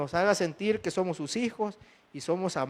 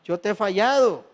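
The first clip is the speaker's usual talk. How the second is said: louder, higher earnest plea; pleading confession; 3 semitones higher, 3 dB louder than usual. Acted. Peter pleading with the Lord after denying him, raised voice. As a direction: cry it out as a broken disciple.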